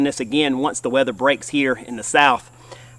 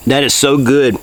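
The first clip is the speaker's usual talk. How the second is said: mouth full; 7 dB louder than usual. Real, not acted. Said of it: "talk with my mouth full".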